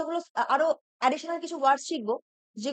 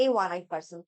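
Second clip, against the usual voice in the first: slow restating; 9 semitones lower, much slower than usual. Shown as a demonstration. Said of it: "মানে রাস্তা দিয়ে ঘুরে বেড়াচ্ছিল".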